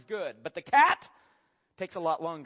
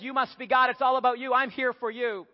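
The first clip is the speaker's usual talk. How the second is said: adoring dog; 4 semitones higher, 4 dB louder than usual. Acted. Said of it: "Dog theology says".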